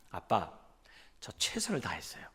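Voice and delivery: small, quiet sheepish voice; mumbled excuse. Retold or imitated. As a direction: mumble it like a cornered son. 아들의 변명을 흉내 냄. (기어들어가는 목소리로 아들 흉내)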